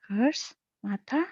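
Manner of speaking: puzzled question with rising end; questioning, confused. A narrator's reading. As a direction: ask uncertainly, pitch lifting on Mata. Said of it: "I looked at her questioningly".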